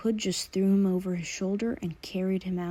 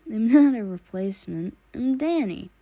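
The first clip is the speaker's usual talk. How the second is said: giggled; 3 semitones higher, 7 dB louder than usual. Acted. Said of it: "Danny giggled".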